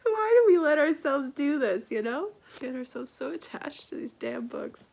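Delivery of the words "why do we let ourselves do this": loud teary laugh; laughing through tears. Real, not acted. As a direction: laugh at yourself while crying. Laughing after crying.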